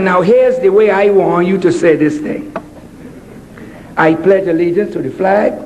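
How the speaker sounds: stern mother voice. Retold or imitated. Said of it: "She said".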